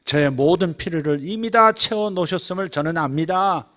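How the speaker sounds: loud, assured yet courteous asking; confident polite prayer. Shown as a demonstration. Believer confidently and politely praying to Father. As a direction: ask the Father boldly but politely. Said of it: "이렇게 공손하게, 확신을 가지고".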